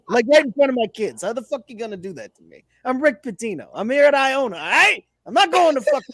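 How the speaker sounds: acted affronted rant; mock outraged coach. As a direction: protest like an offended big shot. Acts Pitino offended by the question.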